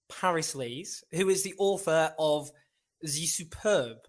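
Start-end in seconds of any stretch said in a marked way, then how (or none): 3.0-4.0 "The Superb" in a vague put-on accent; unplaced mock accent. Shown as a demonstration. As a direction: toss off "The Superb" in a half-hearted foreign accent. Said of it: "I don't know what accent that was".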